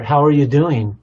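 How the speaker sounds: pointed check on a spouse; argument question. Acted. Spouse asking the other in an argument, pointed. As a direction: put the question with a little push. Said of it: "It's a common thing in an argument".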